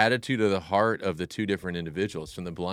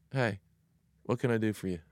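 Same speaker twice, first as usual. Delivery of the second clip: calm, kind reply; 4 dB quieter than usual. Acted. Jesus calmly answering the shouting blind men.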